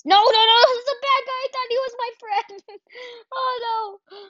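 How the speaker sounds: high squealy laugh through the words; laugh-cry at being betrayed; laughing in disbelief. Real, not acted.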